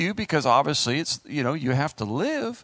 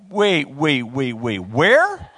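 startled wife; 4 semitones lower, 4 dB louder, much slower than usual. Retold or imitated. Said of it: "she's like".

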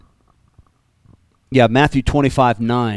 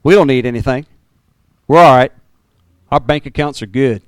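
mock smug church; 4 dB louder than usual. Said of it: "what was in the city got into the church".

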